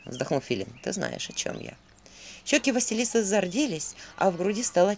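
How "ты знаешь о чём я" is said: much lower, softer, unvoiced; hinting whisper. A narrator's reading. Owl hints to Vasilisa, low soft whisper. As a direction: breathe the hint.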